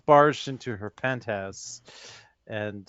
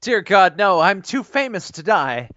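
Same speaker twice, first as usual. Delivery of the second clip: mock panic; 6 semitones higher, 6 dB louder than usual. Star panics at monster.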